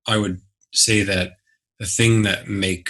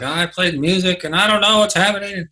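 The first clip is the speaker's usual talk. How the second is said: much higher, flustered, slowing; panicked explaining; 10 semitones higher than usual. Retold or imitated. Father explaining to partner why baby cries, high flustered. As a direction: voice jumps up in helpless panic. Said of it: "I was like".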